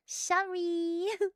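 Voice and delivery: high, soft squeak; drawn-out tiny apologetic squeal; squeaky sheepish noise. Acted. Squeaked apology after repeated sorry.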